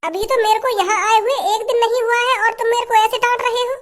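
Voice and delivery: a lightly voiced wounded bride; hurt bride. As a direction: complain like a scolded young wife. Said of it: "ए, मैं तो को डांट रहा हूँ".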